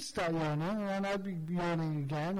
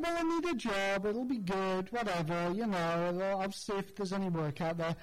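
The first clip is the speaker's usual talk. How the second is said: mock cheerful. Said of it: "I was like".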